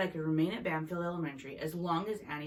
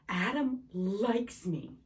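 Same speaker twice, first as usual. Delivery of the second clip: dreamy; 4 semitones higher, 4 dB louder, much slower than usual. A narrator's reading. Girl thrilled by a note.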